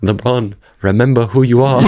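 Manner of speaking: earnest little house-elf pep talk; Dobby impression. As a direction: plead like Dobby from Harry Potter. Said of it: "I do a Dobby impression".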